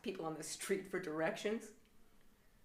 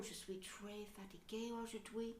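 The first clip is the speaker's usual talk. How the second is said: French phrase; 10 dB quieter than usual. Shown as a demonstration. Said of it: "type out in French".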